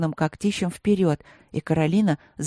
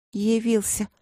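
put-on higher-pitched girlish reproach; reproachful; 5 semitones higher, slower than usual. A narrator's reading. Princess greeting the tiger who left her, reproachful. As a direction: scold lightly in a raised pitch. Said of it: "проговорила принцесса с упрёком".

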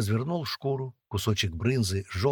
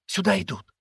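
high, alarmed squeak; squeaked warning; 10 semitones higher, 3 dB louder than usual. A narrator's reading. Girl warning of people coming, squeaky alarm. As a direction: pipe a warning, pitched way up. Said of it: "пискнуло сверху".

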